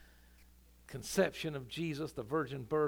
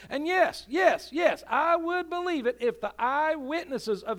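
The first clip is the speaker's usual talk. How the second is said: louder and higher, rising to a shouted cry; building preaching climax; 6 semitones higher, 8 dB louder than usual. Acted. Pastor proving his case to the skeptic, building to a loud, high shout. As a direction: build each line until it rings out.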